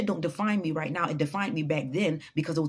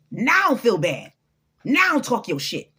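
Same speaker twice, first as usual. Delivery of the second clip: louder and slow, each word hammered; loud slow challenge; 3 semitones higher, 6 dB louder, slower than usual. Real, not acted. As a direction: throw it at them like a dare. Preachy challenge to the doubters.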